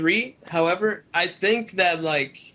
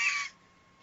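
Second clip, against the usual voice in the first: airless high squeal; 6 dB quieter than usual. Shown as a demonstration. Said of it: "not putting air into it".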